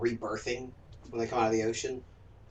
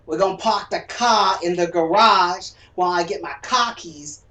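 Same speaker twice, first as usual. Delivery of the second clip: mock Texas accent; 4 semitones higher, 8 dB louder than usual. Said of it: "the R's that Boston lost".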